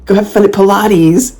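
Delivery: a lighter replay of the obnoxious call; rude taunt. Retold or imitated. Recalling her comeback to the couple, mildly rude. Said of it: "say something really rude".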